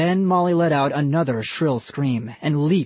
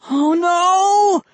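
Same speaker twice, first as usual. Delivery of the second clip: much higher, louder cry of alarm; 7 dB louder than usual. A narrator's reading. Ian crashes into the fish tank, alarmed cry. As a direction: feel yourself falling.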